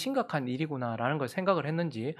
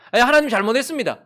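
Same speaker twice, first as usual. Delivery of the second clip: higher, louder mocking "잘못했습니다"; mock shallow apology; 8 semitones higher, 9 dB louder, faster than usual. Preacher mimics an empty apology to God, louder and higher. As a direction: parody a lip-service confession.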